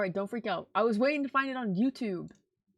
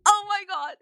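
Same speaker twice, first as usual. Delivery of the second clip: gushing; 7 semitones higher, 10 dB louder than usual. Real, not acted. Gushing over the cake.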